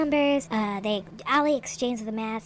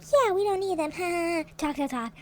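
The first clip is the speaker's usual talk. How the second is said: higher, taunting, laughing jeer; mocking girls; 6 semitones higher than usual. Girls mock the boys' team with a laughing jeer. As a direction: laugh at the boys and taunt them.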